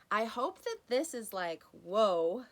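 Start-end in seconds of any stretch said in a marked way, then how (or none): 1.7-2.5 amazed whoa. Pretend. Imagining a listener's revelation.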